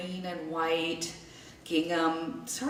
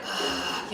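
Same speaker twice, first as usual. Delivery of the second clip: weary groan. Retold or imitated. Imitates poor dad's weary reaction.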